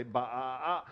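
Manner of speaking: laughing through a sheep bleat; sheep baa. Pretend. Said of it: "entire dream stream to also say".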